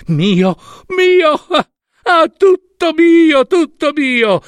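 high, drawn-out triumphant cry; exultant, rising to a loud high shout; gloating joy. A narrator's reading. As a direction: crow with greedy delight, stretching the words. Hera gloats on throne.

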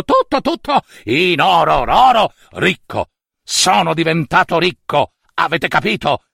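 excited boastful king; a greedy king dazzling his court; triumphant bragging; gloating king showing off. Acted.

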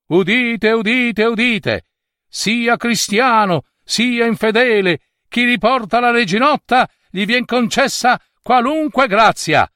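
high, ringing herald's call; town crier. A narrator's reading. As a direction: announce it to the whole town. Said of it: "I banditori andavano".

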